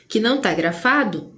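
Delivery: normal talking voice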